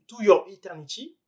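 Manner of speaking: « To Your Eternity » dit avec un accent français; accent anglais à la française. Real, not acted. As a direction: titre anglais prononcé à la française, sans effort. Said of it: "désolé pour mon accent anglais". (le vidéaste lit un titre anglais avec son accent français)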